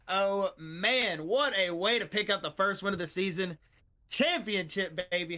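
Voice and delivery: loud, excited booth call; big broadcaster hype; hyped-up cheer. Real, not acted. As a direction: fire up the crowd for the champ. Hyped host greeting the champion.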